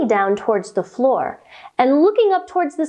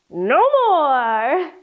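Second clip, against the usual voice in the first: mouse voice. Acted. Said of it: "The mouse said".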